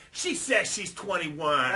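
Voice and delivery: slow shouted announcement; loud announcement. Retold or imitated. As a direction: call it out slowly to the whole club. Announcing to the crowd.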